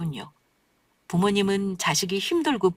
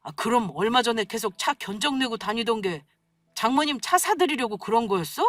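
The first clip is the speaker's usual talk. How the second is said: angry outburst; 5 semitones higher than usual. A narrator's reading. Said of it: "남편은 버럭 화를 내더군요".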